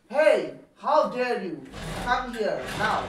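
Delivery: emphatic acted outrage; indignant teacher. Teacher summons a cheeky pupil, indignant scolding. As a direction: order the pupil over, offended and commanding.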